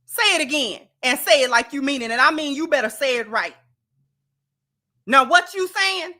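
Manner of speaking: put-on fast, stern mother telling her child off; scolding mama. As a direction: scold like a no-nonsense mom. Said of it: "You know what our mama would have said?".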